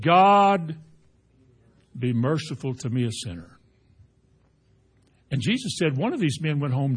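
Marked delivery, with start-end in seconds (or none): 0.0-3.5 humble sinner's plea. Retold or imitated. Preacher voicing the tax collector begging mercy, fading to hushed. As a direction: plead like a broken man beating his breast. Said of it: "smote upon his breast and said".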